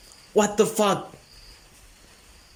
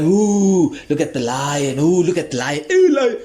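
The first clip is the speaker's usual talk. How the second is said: gawking crowd. Retold or imitated. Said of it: "Oh, they don't sound like that".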